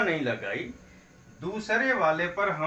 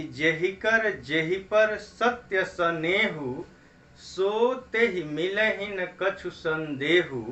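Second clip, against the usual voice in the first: chaupai recitation. Shown as a demonstration. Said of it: "एक चौपाई है कि".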